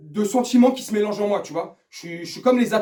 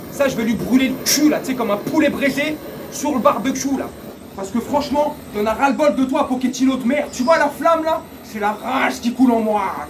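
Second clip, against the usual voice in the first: loud furious rant at the coach; angry rant; 3 semitones higher, 4 dB louder than usual. Real, not acted. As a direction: let the rage burn at Pochettino. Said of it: "Je suis super énervé". (fan furieux qui crie contre Pochettino)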